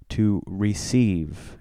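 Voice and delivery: "receive" stretched out very slowly; stress on RECEIVE. Shown as a demonstration. Priest pointing out the key word, "receive" slowly emphasized. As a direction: draw out "receive" so the word stands out. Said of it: "notice how I emphasize that word".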